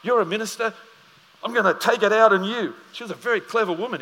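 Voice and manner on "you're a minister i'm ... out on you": mock tirade. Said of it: "got on a soapbox".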